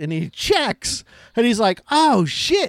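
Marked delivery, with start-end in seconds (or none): 1.9-2.7 mock thrilled, eager, pitched-up exclamation. Retelling a movie scene where a cop learns weed is legal: imitating an excited cop. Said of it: "excited that weed".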